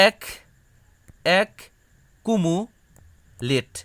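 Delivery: এক then a drawn-out কুমুলেট; slow syllable split. Shown as a demonstration. Teacher sounding out accumulate for students. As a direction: stretch কুমুলেট very slowly after এক. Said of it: "তুমি এটা কীভাবে পড়বা".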